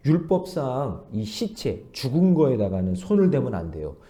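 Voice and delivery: ordinary talk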